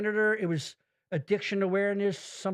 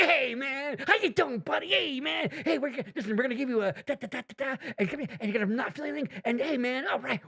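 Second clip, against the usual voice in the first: higher, pumped-up dude voice; lightly voiced, revved-up gym guy; jazzed anesthesiologist; 5 semitones higher than usual. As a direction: play the hyped-up doctor buddying up to the patient. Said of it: "This guy was jazzed".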